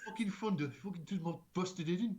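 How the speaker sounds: lightly hammed-up impression of a ranting friend; Stewie. Doing a mutual friend grumbling about his head, mock accent. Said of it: "Your best impression is our good friend Stewie".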